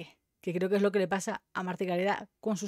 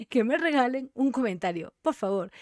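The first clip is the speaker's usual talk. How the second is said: put-on Mexican accent; 3 semitones higher than usual. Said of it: "como dicen los mexicanos".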